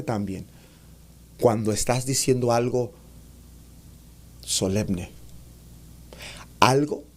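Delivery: grave y suave, con pausas; voz baja y solemne. Shown as a demonstration. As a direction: baja la voz para lo profundo. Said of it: "estoy bajando el tono de la voz". (tono bajo, solemne y pausado)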